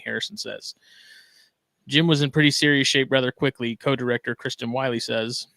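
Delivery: steady, formal news read; news anchor voice. Acted. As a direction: report it like a local news anchor. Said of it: "put on my best, uh, news anchor voice".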